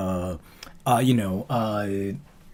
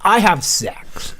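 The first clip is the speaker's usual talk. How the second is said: slow, drawn-out mock declaration; slow deadpan brag; 4 semitones higher, 3 dB louder, much slower than usual. Friends laughing, he repeats the joke slowly. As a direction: stretch each word like a proud joke. Joke line, slowed and put-on.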